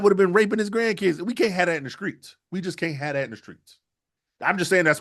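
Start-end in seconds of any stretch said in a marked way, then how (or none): 1.2-2.4 higher, pushed out firmly; emphatic. Real, not acted. Repeats line, first take. 2.5-3.8 softer repeat. Real, not acted. Repeats line, second take.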